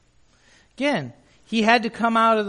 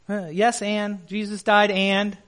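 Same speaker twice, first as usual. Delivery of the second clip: dismissive yes and. Shown as a demonstration. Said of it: "It's not yes and".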